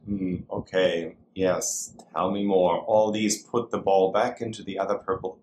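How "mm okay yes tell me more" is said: attentive listening sounds. Shown as a demonstration. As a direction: draw them out gently. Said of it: "Please demonstrate".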